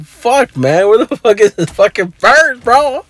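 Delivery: high, strained cursing while searching; retold meltdown over a lost purse; frantic frustration. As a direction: let the panic climb as you swear. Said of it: "I'm like".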